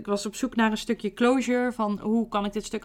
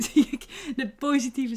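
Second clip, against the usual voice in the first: laughing; 5 semitones higher than usual. Real, not acted. Laughs at her own unresolved choice.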